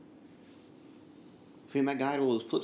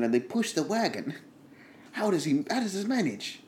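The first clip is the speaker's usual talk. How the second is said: lightly acted griping wagon driver; a touch of hammed-up bafflement; exasperated Paolo; 4 semitones higher than usual. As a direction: grumble to yourself in mild comic exasperation.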